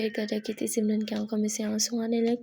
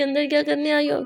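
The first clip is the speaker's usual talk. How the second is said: sharp startled shout, higher and louder; 4 semitones higher, 5 dB louder than usual. Acted. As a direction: yell at the intruder. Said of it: "सिमरन चिल्ला दिया".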